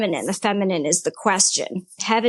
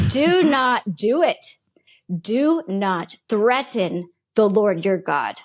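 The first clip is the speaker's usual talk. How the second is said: God's voice; 2 semitones lower, slower than usual. Retold or imitated. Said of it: "He said".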